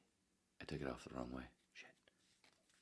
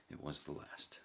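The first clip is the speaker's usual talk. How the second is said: softer, half-whispered repeat; muttered echo; 8 dB quieter than usual. Real, not acted. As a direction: mutter it again to yourself. Muttered repeat of previous line.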